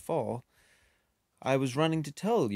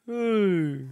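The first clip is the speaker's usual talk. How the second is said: higher, louder gruff hey; Rhino's call; 10 semitones higher, 7 dB louder than usual. Acted. Rhino shows up demanding.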